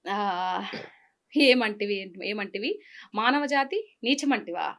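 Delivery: lightly voiced mythological challenge, measured; Junior NTR dialogue. Asked for one dialogue, recites the hero's challenge with a touch of drama. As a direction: declaim it like the old film hero. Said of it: "జూనియర్ NTR dialogue".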